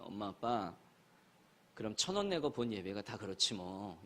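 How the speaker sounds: a lightly voiced son, quiet and dry; son's dry remark. Son from the back seat to complaining parents, quiet deadpan. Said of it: "이렇게 얘기해요".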